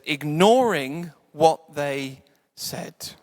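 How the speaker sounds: very slow, with "Ignoring" stretched out; drawn-out IGNORING. Retold or imitated. Preacher quoting a great verse, slow and drawn out. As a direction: stretch "Ignoring" and space out the words.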